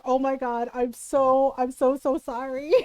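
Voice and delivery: mock-guilty laughing sorry; laughing apology. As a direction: apologise while cracking up. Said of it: "And I was just like".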